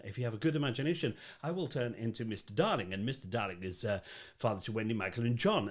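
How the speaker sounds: Scottish storyteller, mildly acted; J M Barrie. Actor explaining his roles to the audience, Scottish accent. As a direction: retell the show's introduction in Scottish. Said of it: "I start the show as J M Barrie".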